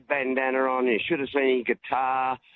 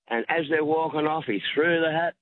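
normal talking voice

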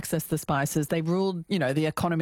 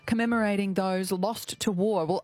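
radio host read. Real, not acted. Radio host links to news.

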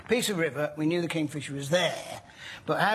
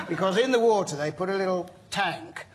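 words bubbling with laughter; laughing while talking. Real, not acted. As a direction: tell it through giggles. Laughs while confessing trick.

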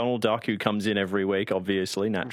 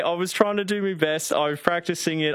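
put-on Cockney accent; 7 semitones higher than usual. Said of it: "your Cockney accent".

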